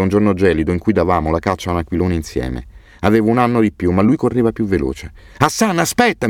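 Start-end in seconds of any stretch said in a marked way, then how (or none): 5.4-6.3 high, carrying call after a running friend; yelling. A narrator's reading. Boy yelling for his friend to wait, high call. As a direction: shout ahead to make him wait. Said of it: "mi urlavo".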